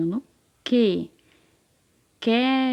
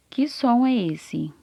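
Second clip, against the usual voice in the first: slow quiz question; 3 semitones higher, slower than usual. Shown as a demonstration. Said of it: "Vamos de novo".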